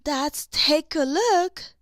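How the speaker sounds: cheerful smile. Acted. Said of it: "Boda said with a smile".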